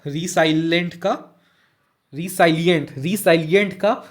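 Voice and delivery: रिसाइलेंट का said slowly, each syllable drawn out; slow repeat. Shown as a demonstration. Teacher repeating the word for students, slowly. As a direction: stretch out रिसाइलेंट का for the class.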